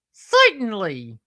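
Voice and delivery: high, loud, stretched catchphrase; Curly from the Stooges. Shown as a demonstration. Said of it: "sound like Curly and Moe from".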